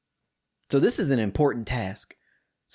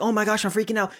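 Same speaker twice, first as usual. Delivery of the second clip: higher-pitched retold freak-out; mock alarm; 7 semitones higher, faster than usual. Husband reacts to wife's near wreck, mock alarm. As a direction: lightly play a flustered husband. Acts out his alarmed reply.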